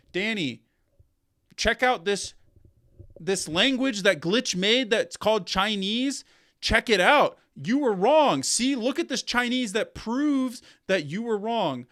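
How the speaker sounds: loud, pushy and triumphant; gloating. Retold or imitated. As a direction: shove it in his face. Fans telling Danny he was wrong.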